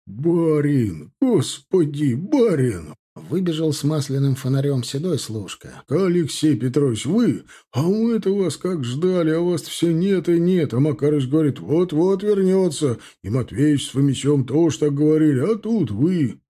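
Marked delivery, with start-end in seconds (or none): 0.0-2.9 overjoyed cry. Acted. Old servant runs out overjoyed. 5.9-16.4 excited welcome. Acted. Old servant greets master.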